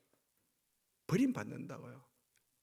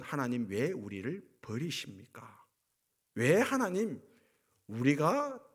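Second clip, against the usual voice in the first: imitated plea to God, surging louder in places; retold lament; 3 dB louder than usual. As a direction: lament as if demanding an answer from God. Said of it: "이렇게 탄식했다고요". (하나님께 따지듯 탄식하는 흉내)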